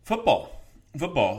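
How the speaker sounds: high, loud burst of excitement; excited octave jump. Real, not acted. Co-host eager to move on to football, voice jumping an octave. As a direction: pitch leaping up, really excited. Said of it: "note in my voice go up an octave".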